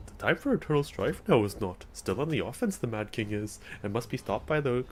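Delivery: half-hearted Jedi master attempt with swooping pitch; Yoda. Streamer trying game dialogue again, half-hearted Yoda accent. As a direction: lightly try the little master's lilt, close to your own voice. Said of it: "I can't do that Yoda accent".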